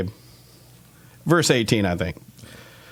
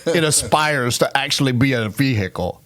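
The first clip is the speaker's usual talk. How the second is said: light Boston accent impression; lightly put-on Boston accent. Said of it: "I just wanted to do my Boston accent".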